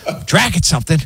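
mock alarmed dad yell; retold building yell. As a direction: build the panic on the repeat. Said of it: "One more time".

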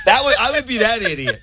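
said through laughter; laughing. Real, not acted. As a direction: laugh while you say it. Laughing at herself.

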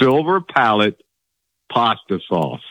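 Silver palate pasta sauce said slowly, each word spelled out clearly; careful take of Silver palate pasta sauce, every syllable clean; saying it right. Shown as a demonstration. Host asks caller to say Silver palate pasta sauce, careful pronunciation. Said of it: "say it".

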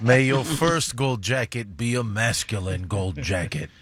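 low, lightly put-on mobster voice; a hint of a Godfather enforcer; Luca Brasi voice. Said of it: "I don't have a good Luca Brasi voice".

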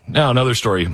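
usual speaking voice

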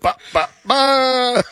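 slow high "ba, ba, ba" stalling; Francesa imitation. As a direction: stretch out the filler like a host stalling. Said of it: "and Francesa".

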